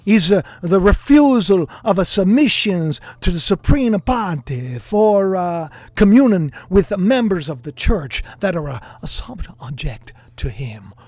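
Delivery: loud, drawn-out mock Italian accent. Vlogger defining schism for viewers in a wobbly put-on Italian accent. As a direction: ham up the Italian, stretching words, then let it slip. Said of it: "I love the Italian accent".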